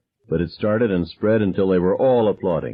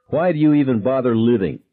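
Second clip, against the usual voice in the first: breathless sneer; 6 semitones higher, 4 dB louder than usual. A narrator's reading. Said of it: "breathing hard".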